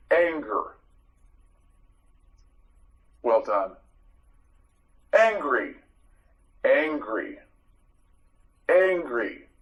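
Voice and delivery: whispered word. Shown as a demonstration. Teacher whispers the vocabulary word to the class. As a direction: whisper the word anger, unvoiced.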